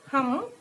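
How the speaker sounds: "humble" pulled apart into hum and bul; split into syllables. Shown as a demonstration. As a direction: say "humble" with a long gap between its two syllables. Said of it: "We pronunciate humble".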